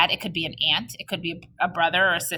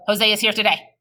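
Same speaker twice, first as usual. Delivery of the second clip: rushed without pause; faster than usual. Shown as a demonstration. Teacher showing kids how not to read, rushed. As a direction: run Jose is here today together in one breath. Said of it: "we don't wanna go".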